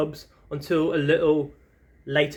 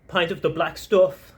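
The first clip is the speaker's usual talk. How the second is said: light mock Southern Irish accent; a playful stab at a Southern Irish accent; a hint of a Cork pub brogue. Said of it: "my best Southern Irish accent impression".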